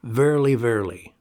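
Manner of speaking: "Verily, verily" as a solemn, stressed double; emphatic. Retold or imitated. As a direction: punch the first "Verily", let the second settle. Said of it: "The emphasis is especially evident".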